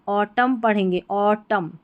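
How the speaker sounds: ऑटम ending on M, no N; silent N. Shown as a demonstration. Teacher giving the reading of autumn, ऑटम with silent N. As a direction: close ऑटम on the M, dropping the N. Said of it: "यहाँ पर एन silent रहता है".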